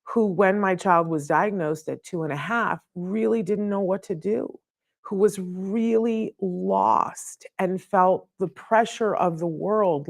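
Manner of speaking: a real touch of choked-up emotion; welling up. Real, not acted. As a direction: let the tears rise behind the words. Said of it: "See, I get welled up al-, already".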